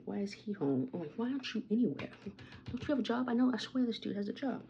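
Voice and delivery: high, incredulous retold complaint; exasperated rant. Venting to viewers about the jobless neighbors, high and incredulous.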